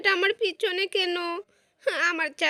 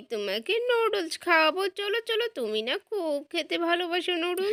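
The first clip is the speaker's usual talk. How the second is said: a hint of a fussing dad coaxing his crying son; lightly voiced Daddy Pig. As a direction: coax the boy over with noodles, gently cheerful. (Daddy পিগ হয়ে ছেলেকে noodles খেতে ভোলানো, হালকা আদুরে গলায়)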